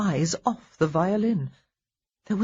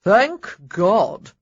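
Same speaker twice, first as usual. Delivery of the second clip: with great feeling; 7 dB louder than usual. A narrator's reading. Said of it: "someone said with great feeling".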